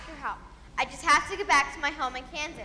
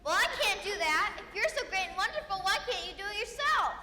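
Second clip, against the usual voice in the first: higher-pitched, challenging retort; indignant protest; 4 semitones higher than usual. Acted. Little girl challenges the great wizard, indignant. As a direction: throw the question back, voice raised in pitch.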